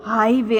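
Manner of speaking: "हाईवे" with a long, weighted "हाई"; stressed "हाई", unstressed "वे" in "हाईवे"; stress on first syllable. Shown as a demonstration. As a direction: lean on "हाई", let "वे" go lightly. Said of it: "first syllable यहाँ पे stress है".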